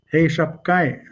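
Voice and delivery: "Hey, Shapkai" run together with the last J dropped; natural demo of "Hey, Shapkai", falling at the end; casual everyday greeting. Shown as a demonstration. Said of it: "I would just say it that way".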